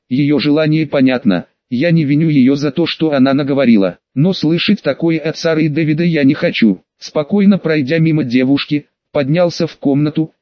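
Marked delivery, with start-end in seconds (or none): none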